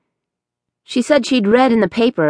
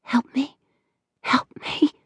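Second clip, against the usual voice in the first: faint breathless whisper; a ghostly plea, barely voiced; 8 semitones higher, 6 dB quieter than usual. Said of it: "heard her voice whispering".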